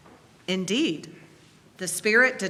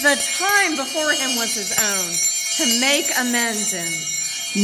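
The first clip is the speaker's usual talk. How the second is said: joyful narration; 3 semitones higher than usual. A narrator's reading. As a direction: let the relief burst out of the words. Narrator rejoices at Scrooge's waking.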